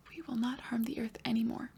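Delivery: put-on soft whispered child's reply; whispered student answer. Pretend pupil answering the teacher, whispered.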